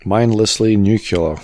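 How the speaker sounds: slow "nuclear" as nuke-yuh-ler; mispronounced nuclear. Real, not acted. Co-host teasing the host, "nuclear" slowly as nuke-yuh-ler. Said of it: "Stop saying nuclear".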